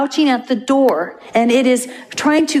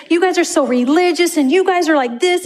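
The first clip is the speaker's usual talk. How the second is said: higher-pitched, indignant accusation; mock angry spewing; 6 semitones higher than usual. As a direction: imitate someone spewing accusations. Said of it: "spewing this".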